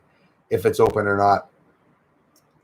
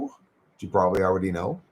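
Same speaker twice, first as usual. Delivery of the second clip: ordinary talk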